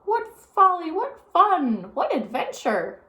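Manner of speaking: high, loud, thrilled exclaim; delighted old lady. A narrator's reading. Old lady in a runaway car gushes with delight. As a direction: gush with delight, winding down. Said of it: "said Baby Lincoln".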